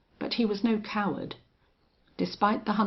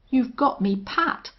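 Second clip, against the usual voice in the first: husky; 11 semitones higher, 10 dB louder than usual. Acted. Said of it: "said Folsom huskily".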